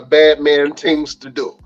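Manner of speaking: a light, badly faked Jamaican accent; slow down into a hint of mock Jamaican; horrible Jamaican accent. Signing off his co-host's bad man things, horrible Jamaican accent. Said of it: "my horrible Jamaican accent".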